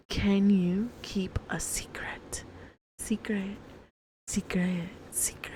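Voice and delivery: eerie whispered echo; spooky whisper. Acted. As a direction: hush it like a secret.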